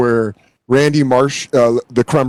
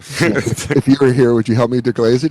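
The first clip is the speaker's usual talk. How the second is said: seedy, horny phone caller; lightly imitated lecher talking food; Randy Marsh; 3 semitones lower than usual. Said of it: "such a seedy, horny voice for food".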